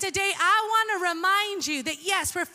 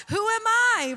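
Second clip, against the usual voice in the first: higher and louder rhetorical challenge; bold challenge; 5 semitones higher, 4 dB louder than usual. Acted. Jesus confronting his disciples, boldly louder. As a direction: throw down the question with swagger.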